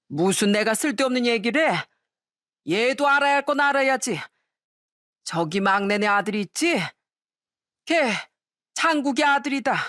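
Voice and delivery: mildly indignant tipsy elder; lightly acted drunken insistence; drunk father-in-law. Drunk father-in-law blurts out the secret over objections, mildly indignant. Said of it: "너무 취했어".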